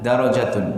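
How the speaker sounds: darajatun with a single short r and a short a; without shadda. Shown as a demonstration. Teacher contrasts the reading without shadda for students. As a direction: darajatun said quickly with no doubled consonant. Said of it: "kalau tidak ada tasdid dan alifnya".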